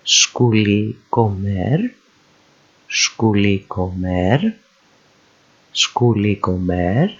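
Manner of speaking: schooly comer read slowly as one unit, rising at the end; joined word parts. Shown as a demonstration. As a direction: link schooly and comer, lifting the last syllable. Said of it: "ready to read".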